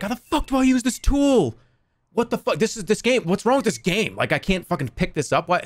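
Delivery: high-pitched mock meltdown, easing off; acted freak-out. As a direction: impersonate a flustered gamer losing it. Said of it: "A streamer freaking out".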